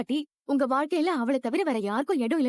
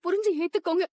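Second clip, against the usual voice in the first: desperate begging; 5 semitones higher than usual. Acted. Woman begs husband to accept her.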